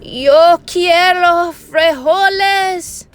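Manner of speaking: slow, high, drawn-out proclamation; somber declaration. A narrator's reading. Don Diego standing tall to declare, mock somber. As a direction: intone it with mock solemnity. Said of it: "in his most somber voice declared".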